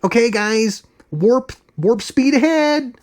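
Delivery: high, slow, slurred mock captain; Holly Hunter impression. Reviewer mocks the actress as a starship captain, slurred high impression. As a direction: order warp speed in a mocking, strained high voice. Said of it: "sits in the captain's chair".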